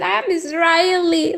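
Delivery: mock her whining through fake tears; mock crying. Mocking a rival's crying claim on a live panel, fake sobbing. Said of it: "but yet crying, saying".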